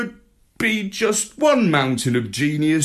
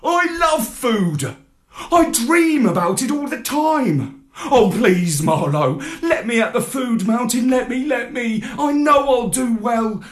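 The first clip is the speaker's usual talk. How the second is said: high, louder puppy pleading; eager begging; 10 semitones higher, 4 dB louder than usual. A narrator's reading. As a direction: beg like a dog at the table. Pup begging for food mountain.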